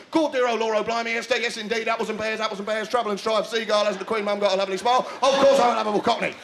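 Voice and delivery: hammed-up cockney patter; lovable cockney. Cockney answering Esther in the street, hammed-up cockney. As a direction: rattle it off as a chirpy cockney. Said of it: "Are you a lovable cockney?".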